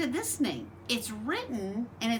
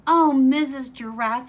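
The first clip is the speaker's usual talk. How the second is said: little bird calling out louder; crying out; 3 semitones higher, 9 dB louder than usual. Acted. Little bird Choco calling out hopefully to Mrs Giraffe, loud. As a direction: call out eagerly to Mrs Giraffe. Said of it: "he cried".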